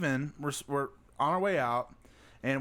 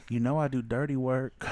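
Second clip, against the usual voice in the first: low sultry voice; 6 semitones lower than usual. Retold or imitated. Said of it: "she looks at me and she goes".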